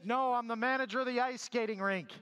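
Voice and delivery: lightly voiced rink manager over the speakers. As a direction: deliver the punchline as the same booming voice. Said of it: "the voice came back and said".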